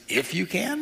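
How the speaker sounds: quiet, rising echo question; taken aback. Acted. Jesus to the doubting father, mildly taken aback. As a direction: throw the words back as a question. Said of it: "that kind of struck Jesus".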